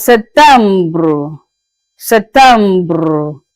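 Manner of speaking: "septembre" with a rolled French ending "bruh". Shown as a demonstration. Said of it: "pronounce it as septembre".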